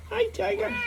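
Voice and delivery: very high, soft, rising coo. Real, not acted. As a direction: lift the end into a coo. Owner cooing at his dog.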